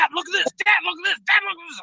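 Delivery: high-pitched mimicry of an eager child; excited kid. Ten-year-old son calling dad in a tool shop, imitated excited kid. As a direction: imitate a kid pestering for attention, each repeat just as eager. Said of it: "He walks in, he's like".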